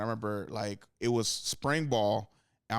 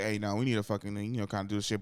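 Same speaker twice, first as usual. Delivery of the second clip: understated, half-hearted telling-off; lightly voiced, hesitant nudge to a teammate; mild-mannered leader; 3 semitones lower, faster than usual. Curry trying to lead his teammates, mildly and without force. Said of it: "Like, Curry Lee".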